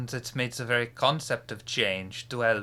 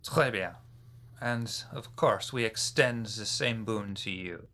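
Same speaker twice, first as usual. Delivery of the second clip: put-on French accent. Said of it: "my terrible accent".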